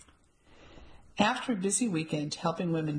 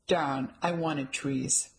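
theatrical; much slower than usual. Acted. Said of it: "with a theatrical flair".

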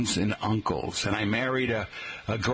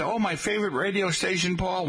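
imitating dad; 8 semitones higher than usual. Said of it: "he used to say".

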